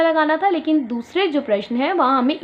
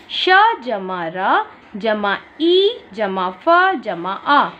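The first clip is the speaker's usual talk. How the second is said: slow counting out; 3 semitones lower, much slower than usual. Shown as a demonstration. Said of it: "जोड़कर एक शब्द बनाना है".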